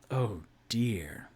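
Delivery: breathy whisper of dread. Real, not acted. GM whispering over the dice roll. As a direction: whisper it, bracing for bad news.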